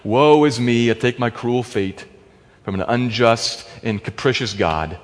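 low, soft, mock woe-is-me; mild mock resignation; resigned self-pity. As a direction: sigh it out like a defeated man. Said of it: "leaning back and saying".

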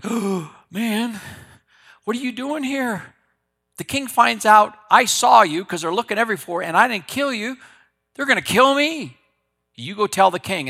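high, loud, frightened pleading; panicked Obadiah. Servant Obadiah panicking at the prophet's request, high frightened plea. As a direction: voice a terrified servant begging not to be sent.

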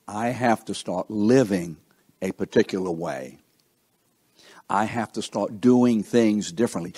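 "I" given deliberate weight at the start; measured, emphatic "I"; stress on I. Shown as a demonstration. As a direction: lean on "I" in "I have to". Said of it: "The emphasis is on I".

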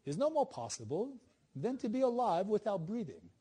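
amateur English accent, played lightly. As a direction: finish the quote in a mock English accent. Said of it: "I apologize with my accent".

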